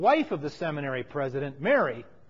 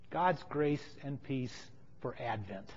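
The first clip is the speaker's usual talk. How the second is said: slow, hushed blessing in one phrase; quiet, measured benediction; soft blessing; 5 semitones lower, 10 dB quieter, slower than usual. Real, not acted. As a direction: offer it softly and unhurried. Solemn blessing, said then repeated.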